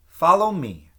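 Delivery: firm call. A narrator's reading. Mary Kate decides to help.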